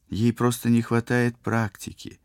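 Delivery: smooth things over; mildly peacemaking tone; conciliatory. A narrator's reading. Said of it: "примирительно сказала Полина".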